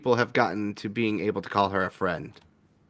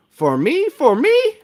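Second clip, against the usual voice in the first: much higher, louder squeal; delighted little dog begging; excited dog voice; 7 dB louder, slower than usual. Acted. The dog squeals at being given bacon, excited.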